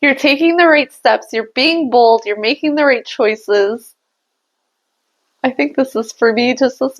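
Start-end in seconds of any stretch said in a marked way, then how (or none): 0.0-4.0 real emotion breaking through a pep talk; getting emotional. Real, not acted. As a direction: pitch rising, voice welling up with feeling. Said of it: "I'm getting emotional again".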